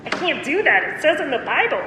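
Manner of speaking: put-on "I can't" voice; put-on excuse voice. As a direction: act out a feeble, pious excuse. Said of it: "You say it in that voice".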